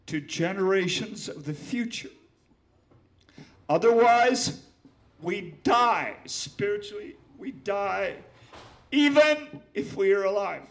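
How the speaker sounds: reading the stanza again to the audience; repeated stanza. Acted. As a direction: restate it with force. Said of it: "I'm gonna repeat that last stanza".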